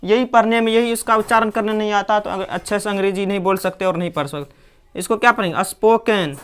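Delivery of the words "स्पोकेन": स्पोकन as "as-poh-ken", clear "e"; spelling reading स्पोकन, ending "ken"; mispronunciation demo. Shown as a demonstration. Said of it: "ना कि स्पोकन".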